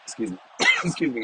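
hoarse right after coughing; smoker's rasp. Real, not acted. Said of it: "I'm a smoker".

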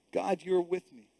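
soft murmured affirmation; quiet. Shown as a demonstration. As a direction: say it gently to yourself. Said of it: "I want us to say that".

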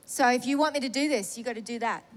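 low, stern ultimatum, retold; really serious. Woman retelling her ultimatum to God, really serious. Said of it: "I got really serious with God".

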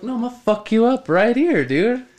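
retold yelled threat. Refusing to step outside, threatening the old man with a yell. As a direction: bark the threat like you mean it.

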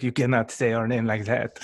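put-on a light French accent as an offended Frenchman; lightly put-on French accent, half-joking; mock French accent. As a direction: scold in a hint of a French accent. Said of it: "I appreciate that you did".

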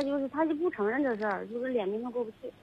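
faint, off-mic phone voice; far from phone. Real, not acted. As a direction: voice dropping away from mic. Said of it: "你声音又小了".

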